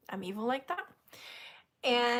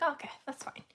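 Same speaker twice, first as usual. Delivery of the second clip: soft, higher little voice; retold small letdown; mock resignation; 5 semitones higher, 6 dB quieter than usual. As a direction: console yourself quietly. Retold resigned self-consolation.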